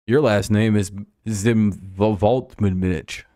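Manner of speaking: Zimvoltmanich dragged out slowly, every syllable laid out; slow, deliberate made-up name; mock name reading. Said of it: "I'm like".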